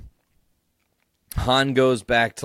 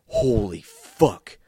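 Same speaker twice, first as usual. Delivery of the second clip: drawn-out shocked exclaim, a bit louder; loud exclamation; 2 semitones higher, 5 dB louder, much slower than usual. Retold or imitated. Fan in theater blurting at Darth Maul, shocked exclaim. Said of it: "I literally in the theater loudly exclaimed".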